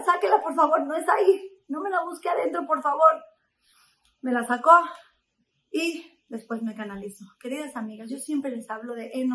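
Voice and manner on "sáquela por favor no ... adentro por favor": louder, higher urgent begging; retold pleading. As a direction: keep pleading with the nurse through the pain. Begging the nurse mid-injection.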